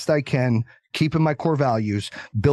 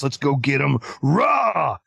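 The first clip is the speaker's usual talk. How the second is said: mock badass rally cry; slower than usual. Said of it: "I'm just this badass".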